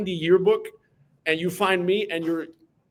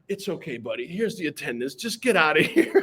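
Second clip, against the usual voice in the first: kind teacher. Retold or imitated. Teacher handing over attendance to the freshman, gently. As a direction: kindly send the kid off. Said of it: "You were like".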